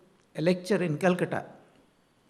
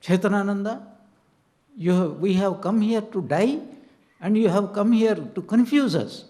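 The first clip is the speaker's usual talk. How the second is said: rising indignation, higher and louder by the end; annoyed retort; 4 semitones higher, 5 dB louder than usual. Retold or imitated. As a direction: scold him as if he is spoiling your plan. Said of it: "became very annoyed and said".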